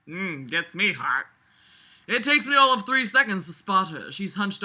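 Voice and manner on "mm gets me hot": slow, laughing mock seduction; slow, hammed-up sultry delivery. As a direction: purr it as a joke. Mocking seductive line.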